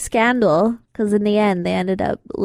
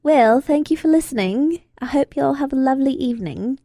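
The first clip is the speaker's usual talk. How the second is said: higher-pitched put-on English accent; 5 semitones higher than usual. Shown as a demonstration. Thanking listeners for tuning in on request, English accent. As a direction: sign off politely in an English accent. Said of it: "do your English accent again".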